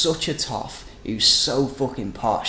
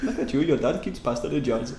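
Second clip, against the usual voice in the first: put-on Indian accent; 2 semitones higher than usual. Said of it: "Why does that sound like an Indian accent?".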